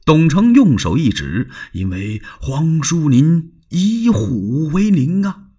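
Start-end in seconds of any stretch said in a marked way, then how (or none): 1.7-5.5 drawn-out, higher, meaningful warning; slowly hint at danger; ominous Dong Cheng. Acted. Dong Cheng voiced in story. (意味深长地警告)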